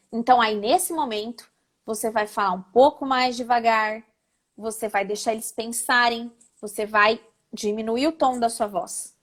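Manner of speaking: measured, low, reflective delivery. Shown as a demonstration. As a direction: drop the pitch low and ease off to let them think. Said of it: "deu pra perceber".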